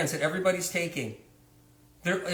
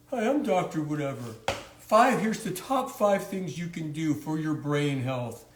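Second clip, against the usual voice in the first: smooth doctor voice; 3 semitones lower than usual. Pretend. Mocking YouTube doctors selling supplements, smooth doctor voice. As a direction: purr like a podcast doctor selling pills. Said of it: "you like that voice".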